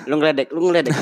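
half-laughing, you're mocking me; laughing protest. Real, not acted. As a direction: laugh it off as you accuse them of teasing. Accusing friend of teasing him.

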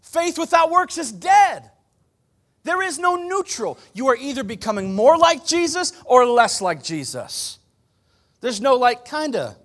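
loud, high pulpit declaration; fiery sermon peak; full-force preaching. Acted. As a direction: drive it home to the church. Preaching climax.

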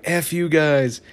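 high-pitched imitation of a cartoon character; Cartman. Retelling a bitter drunk's parting shot, imitated in a high voice. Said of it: "we just see Cartman".

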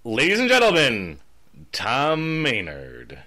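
drawn-out name after a lifted opening; mock award announcer. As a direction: play the emcee calling up a winner. Mock award introduction on request.

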